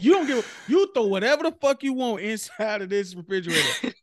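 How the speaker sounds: slow, punched-out scolding at first; angry girlfriend rant. Pretend. Girlfriend scolding man for cleaning out fridge, angry. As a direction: let the grievance build. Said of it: "the girl be like".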